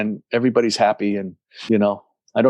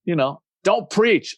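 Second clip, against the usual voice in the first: higher-pitched offended protest; mock-offended pushback, pitched up; 8 semitones higher, slower than usual. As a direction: retell it as an indignant, high-pitched objection. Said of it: "And I got offended".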